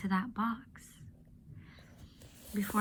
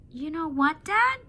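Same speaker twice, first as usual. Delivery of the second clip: much higher and louder, bursting with an idea; excited girl; 8 semitones higher, 5 dB louder than usual. Acted. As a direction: pitch the plan eagerly to dad.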